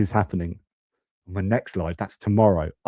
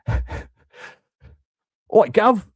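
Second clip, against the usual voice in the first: high-pitched mock Cockney call; hammed-up Cockney greeting; bad Cockney accent; 12 semitones higher than usual. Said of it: "doing a bad, bad Cockney accent".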